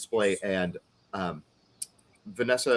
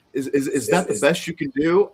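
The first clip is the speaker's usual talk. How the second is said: imitating haggling customer; 5 semitones higher, 5 dB louder than usual. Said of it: "he was like".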